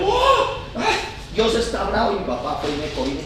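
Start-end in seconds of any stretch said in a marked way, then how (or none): 0.0-2.1 retold frightened cry. Preacher re-enacts his childhood cry at thunder, mock frightened yelp. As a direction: imitate a startled child crying out. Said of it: "yo grité y dije".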